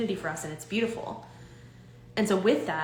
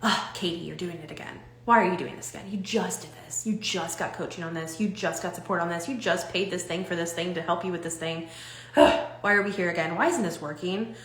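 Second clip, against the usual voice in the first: mock self-berating. Shown as a demonstration. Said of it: "we berate ourselves".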